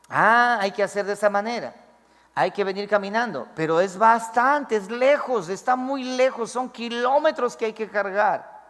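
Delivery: mock grumbling about a long walk; complaining. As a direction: whine about how far it is. Grumbling about carrying the ark.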